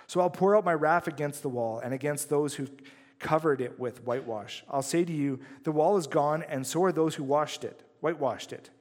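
measured, earnest Bible reading; scripture reading. Acted. Pastor reading Ezekiel to the congregation, solemn read. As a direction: read God's warning with weight.

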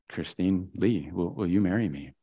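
slow, soft, low retold proposal; tender proposal. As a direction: gently re-enact popping the question, hesitating. Retells his marriage proposal.

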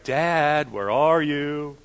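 put-on drawn-out, singsong child's call; playful calling. Toddler searching for hiding dad, playfully calling out. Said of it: "and playfully, right?".

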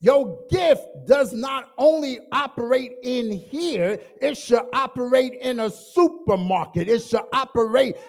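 loud rhythmic preacher's drive; preaching crescendo. Acted. Preacher telling the ladies their gift works outside, loud preach. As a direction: hammer each line of the list.

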